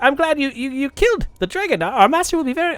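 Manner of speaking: high-pitched, halting kobold voice; shivering kobold. Acted. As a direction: stammer it high like a shivering little creature. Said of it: "they're shivering and they're like".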